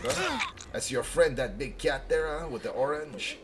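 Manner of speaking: put-on French accent, teasing; heavy French accent. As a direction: tease him in a mock French accent. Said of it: "she did have a heavy French accent".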